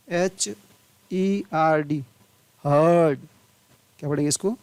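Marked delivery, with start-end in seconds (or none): 2.6-3.3 हर्ड as a long "huhd"; silent R. Shown as a demonstration. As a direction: drop the र in हर्ड and hold the vowel. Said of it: "र नहीं पढ़ा जाता है". (हर्ड में र चुप, अ लंबा)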